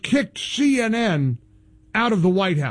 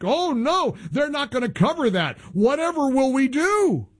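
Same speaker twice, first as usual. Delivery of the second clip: mock dismay; 4 semitones higher than usual. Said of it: "I was being sarcastic".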